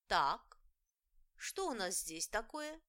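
loud sudden strict call; a stern unknown fairy checking the place; stranger fairy voice. Acted. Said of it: "раздался незнакомый голос".

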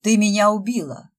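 loud hammed-up howl; clowning with a theatrical wail; mock wail. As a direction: overplay dying for laughs. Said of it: "провыл Фёдор".

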